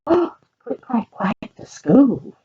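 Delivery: gasp, then a high Click and a slow, savoured clack, quack to school; gasping excitement. Shown as a demonstration. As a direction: relish the title like a treat. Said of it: "repeats title with a gasp".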